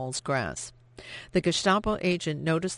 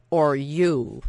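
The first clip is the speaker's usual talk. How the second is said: defiant retort; 6 dB louder than usual. Acted. Daughter repeats retort.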